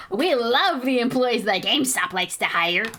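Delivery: slow sarcastic line through laughter; laughing sarcasm. Real, not acted. Mocking GameStop's hiring while laughing, slow.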